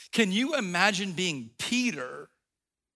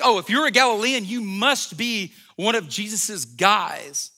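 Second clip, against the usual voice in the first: mocking accuser. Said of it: "he's like".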